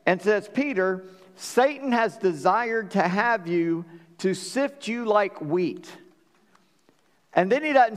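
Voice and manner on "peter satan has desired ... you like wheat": slow, solemn words of Jesus; a hint of Jesus warning Peter, drawn out; Jesus speaking. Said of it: "Jesus looks at him and says".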